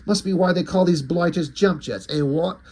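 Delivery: put-on light English-chap accent; hint of an old-fashioned English accent. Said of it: "with the English accent".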